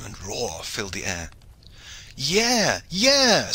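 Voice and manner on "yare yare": high urgent yell, rising in force; screamed order. A narrator's reading. Shipmaster at the tiller rouses his crew, screaming. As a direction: scream the command across the deck. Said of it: "screamed Goodwin Hawtayne".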